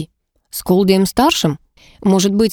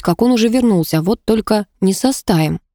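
usual speaking voice

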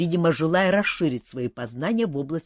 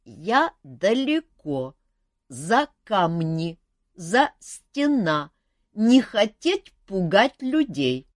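halting, very slow and higher; stumbling phantom; 6 semitones higher, 7 dB louder, much slower than usual. Acted. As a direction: stumble over every word. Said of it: "запинаясь на каждом слове".

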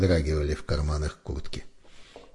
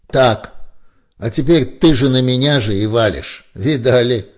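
loud, high indignant rant; aggrieved and shouting; offended outburst; 4 semitones higher, 8 dB louder than usual. A narrator's reading. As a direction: vent hurt pride at full volume. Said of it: "оскорблённо проговорил Барбур".

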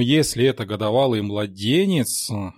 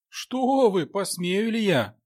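horrified whisper; 9 semitones higher, slower than usual. A narrator's reading. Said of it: "прошептал я в ужасе".

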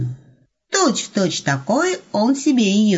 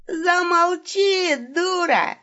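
mock robber snap; 11 semitones higher, much slower than usual. Wolf silences victim in staging.

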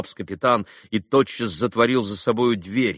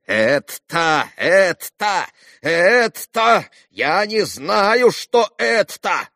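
rising louder and higher, slowing at the end; loud bewildered repeating; 9 semitones higher, 5 dB louder, much slower than usual. A narrator's reading. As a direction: sputter in outraged confusion. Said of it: "громко повторяя".

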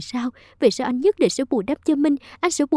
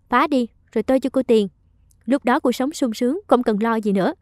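mild mock scolding. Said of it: "Bà Dung bắt lấy tay cô quát".

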